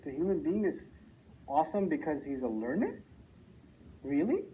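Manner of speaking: incredulous questions with a steep rising end; puzzled, questioning lift; surprised professor. Retold or imitated. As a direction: voice the professor's disbelief, rising sharply. Retold professor's surprise at reading.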